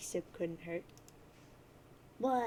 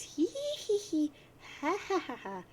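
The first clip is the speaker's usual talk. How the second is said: troll cackle; 9 semitones higher than usual. Acted. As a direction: giggle like a gleeful troll. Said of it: "And she says".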